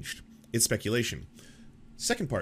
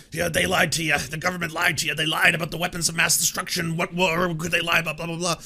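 mocking; 5 semitones higher, 4 dB louder than usual. Mocking conspiracy fans' talk.

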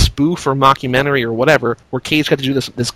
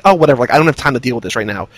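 quick, dismissive mock reply; retold brush-off; 4 semitones lower, much faster than usual. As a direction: brush it off in a rush. Retells his brush-off.

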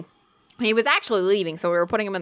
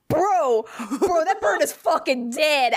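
retold alarm; 7 semitones higher, slower than usual. Retelling shock at drowning bird.

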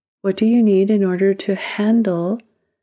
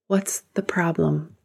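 whispered, soft "What's the problem?"; a quiet whispered aside; hushed question; 5 dB quieter than usual. Acted. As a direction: ask it under your breath, almost to yourself. Coach questions the anxious self.

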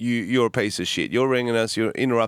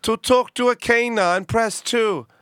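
automated phone message; 13 semitones higher than usual. Retold or imitated. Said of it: "and I go".

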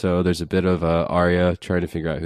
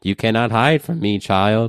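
creepy crone voice; 4 semitones higher than usual. Acted. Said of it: "That was creepy as hell".

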